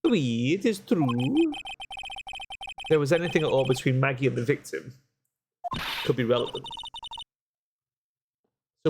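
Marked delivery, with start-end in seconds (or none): 0.0-6.6 lightly put-on French accent, café owner voice. Café owner telling the lawyer what happened, light French accent. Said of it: "I hate doing the accent".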